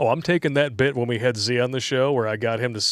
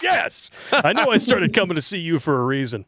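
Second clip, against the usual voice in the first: excited yell; 5 semitones higher than usual. Retold or imitated. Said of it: "I'm like".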